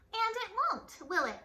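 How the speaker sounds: high loud threatening tag; menacing question. A narrator's reading. Teacher warning the class, loud menace. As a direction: warn the class pointedly. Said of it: "said Miss Swamp to the class".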